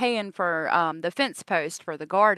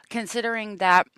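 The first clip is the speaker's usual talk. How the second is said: chewing gum while talking; mouth full; 3 semitones higher, 3 dB louder than usual. Real, not acted. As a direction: talk around a piece of gum. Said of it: "sorry, I had gum in my mouth".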